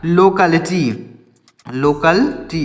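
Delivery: "लोकेलिटी" drawn out, then split into lokal and ti; prononciation modèle. Shown as a demonstration. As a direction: sound out "लोकेलिटी" slowly in parts for learners. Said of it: "इस तरीके से".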